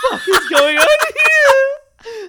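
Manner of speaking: crying with laughter at the absurdity; real helpless laughing fit; hysterical laughter. Real, not acted. Losing it at the article.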